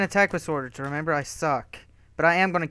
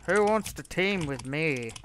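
slow, drawn-out mock invitation; imitating a player; 3 dB quieter, slower than usual. Gamer mimics what a rival keeps saying, slow mocking voice. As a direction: lightly mimic another player, stretching the words. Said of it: "like, that's how he sounds".

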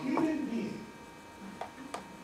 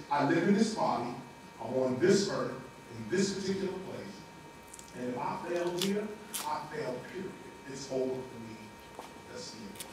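resigned despair; 8 semitones lower, faster than usual. Acted. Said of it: "Material thinking is".

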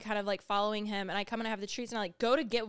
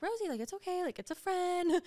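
higher, coaxing dog voice; soothing the dog; 8 semitones higher than usual. Retold or imitated. To barking Rosie, a higher coaxing voice. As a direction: coax the nervous dog gently.

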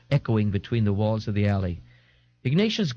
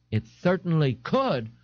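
pleasant; 6 semitones higher, slower than usual. Acted. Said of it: "the young man said pleasantly".

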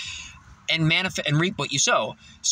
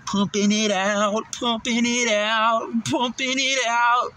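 slow, each repeat higher; climbing higher; 5 semitones higher, slower than usual. Real, not acted. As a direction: step it up in pitch, slowly.

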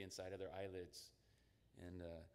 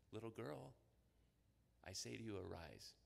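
gentle; 5 dB quieter than usual. Retold or imitated. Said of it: "very gentle language".

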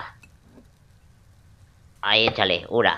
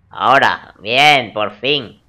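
relieved cheer; 3 semitones higher, 8 dB louder, much slower than usual. Real, not acted. Finally gets the pants picked.

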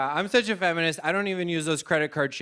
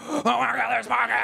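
excited shriek; 6 semitones higher than usual. Retold or imitated. Girlfriend discovering pockets on a date, squealing with delight. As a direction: squeal it like the best surprise ever. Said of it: "she'll be like".

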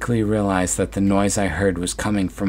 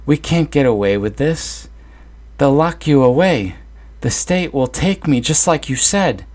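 much higher, louder, panicky pleading; a frightened son begging, voice pitched up; panicked son; 8 semitones higher, 5 dB louder than usual. Acted. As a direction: son panics at his mother about getting caught. Son panics over the body.

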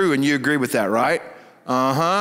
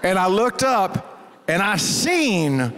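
hushed dread; slower than usual. Retold or imitated. Boy discovering pig head.

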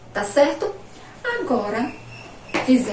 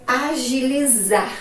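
"agilizar" drawn out; slow dictation; slower than usual. Shown as a demonstration. Teacher giving the class the next word, slow dictation. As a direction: say it slowly for someone writing.

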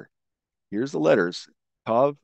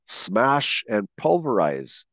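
slow emphasis; slower than usual. Shown as a demonstration. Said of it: "How about these descriptive words?".

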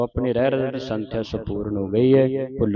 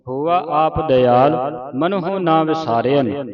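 slow, measured Gurbani recitation; deliberate teaching recitation of sacred verse; scripture recitation; 3 semitones higher, 3 dB louder, slower than usual. Shown as a demonstration. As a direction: recite slowly, drawing out line endings.

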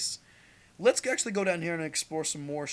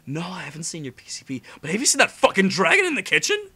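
mock cat voice; 2 semitones higher, 10 dB louder than usual.

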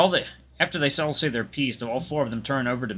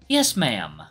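meek compliance. Acted. Meek reply to being yelled at.

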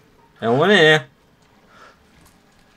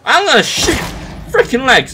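high loud snarl of a threat; angry threat; 9 semitones higher, 4 dB louder than usual. Real, not acted. Gamer threatens an enemy, loud high threat. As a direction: shout it like you mean it.

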